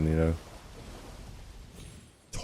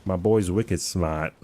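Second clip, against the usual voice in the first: slow, lightly done Boston accent; a hint of Boston drawl on wicked smart; slower than usual. Shown as a demonstration. Streamer tries a Boston accent for chat, slow and light. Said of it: "I was thinking Boston".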